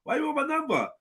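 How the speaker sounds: high, mock-coy old woman declining; hammed-up flustered old lady. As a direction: play the flattered granny, lightly voiced. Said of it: "They're proper on it".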